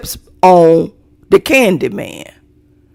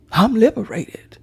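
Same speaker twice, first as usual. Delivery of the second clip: quiet echo; 5 dB quieter than usual. Shown as a demonstration.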